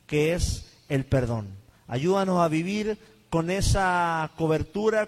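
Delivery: earnest spoken prayer, steady and devout. Acted. Pastor praying for his online congregation, devout prayer. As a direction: pray over the congregation and viewers.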